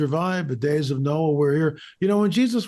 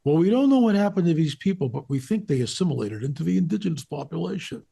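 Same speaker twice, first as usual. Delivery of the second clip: mock parroting; 2 semitones higher than usual. Guest imitates the experts' typical line, mock parroting. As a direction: parrot the stock line dismissively. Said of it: "there's the typical parroting".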